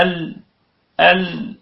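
"ال" with the ل briefly held, then stopped; in-between sound demo. Shown as a demonstration. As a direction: let ل in "ال" ring a moment without running on. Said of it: "ما بيكملش".

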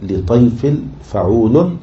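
slow, rising feet; metrical scansion. Shown as a demonstration. Teacher scanning verse for students, slow syllables. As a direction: lift the end of each measured foot.

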